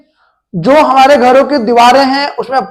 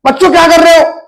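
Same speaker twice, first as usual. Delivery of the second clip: a moderate teacher's yell, higher pitched; teacher shouting; 4 semitones higher, faster than usual. Retold or imitated. Teacher yelling at the kids, shouting. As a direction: call out to the class like a cross teacher. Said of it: "teacher होता है एकदम चिल्लाता है".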